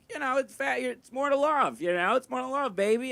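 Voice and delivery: high-pitched, cajoling reassurance; mock encouragement. People telling him not to be self-conscious, mock encouragement. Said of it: "tell you to not be, like, self-conscious".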